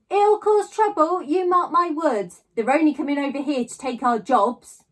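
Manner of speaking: put-on high, slow, sour old woman's voice; grumbling old lady. A narrator's reading. A sour grandmother grumbling at the school gates, high and slow. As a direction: sniff it out like a disapproving neighbour. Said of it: "Then the lady".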